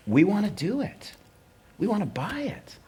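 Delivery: executives' offer in a lilting high voice; high-pitched imitation. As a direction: pitch way up, mimicking a buyer's offer. Executives announce they will buy.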